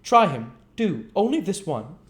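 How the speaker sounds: put-on high, sweet coaxing girl; coaxing Charlotte. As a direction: offer it up sweetly to him.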